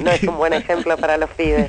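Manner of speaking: hoarse, raspy voice; smoker's rasp. Real, not acted. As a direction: speak through a rough, worn throat. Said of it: "tenés típica voz de fumadora".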